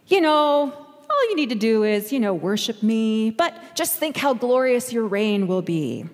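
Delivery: lightly voiced sly tempter, punchy "you know"; devil's catch. The devil asking Jesus for worship, sly and light. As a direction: slip in the catch casually.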